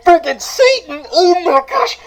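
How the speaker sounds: high, giddy outburst of hero worship; fanboy squeal. Acted. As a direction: squeal at meeting your idol. Fan gushes at meeting idol.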